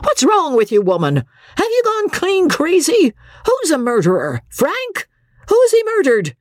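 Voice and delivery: furious captain yelling at his wife; exasperated shout. Acted. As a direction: snap at her, patience gone. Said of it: "Andy's patience ... snapped".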